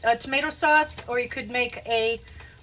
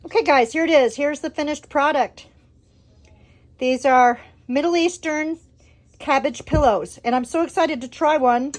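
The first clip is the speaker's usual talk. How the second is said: excited; 2 semitones higher, 6 dB louder than usual. Real, not acted. Presenting the finished dish.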